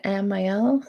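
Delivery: Amiel said am-eye-EL, questioning; tentative pronunciation. Shown as a demonstration. Reader unsure of a viewer's name, Amiel pronounced am-eye-el. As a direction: say Amiel with a long "eye" in the middle. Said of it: "I'm confusing myself with your name".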